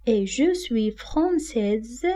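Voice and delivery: very slow, clearly articulated example; slow feminine form demonstration; slow model sentence. Shown as a demonstration. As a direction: say it slowly for learners to copy. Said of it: "pour le masculin".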